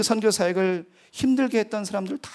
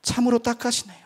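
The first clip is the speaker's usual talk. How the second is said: retold sneer at God's choice; sarcastic; 7 semitones higher than usual. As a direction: needle the Lord with scorn. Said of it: "빈정거렸습니다".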